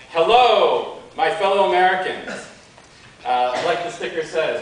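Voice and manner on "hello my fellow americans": hearty hello called out to a crowd; mild mock yell. Speaker recalling greeting the inauguration crowd, mild mock yell. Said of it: "I just yelled out to the".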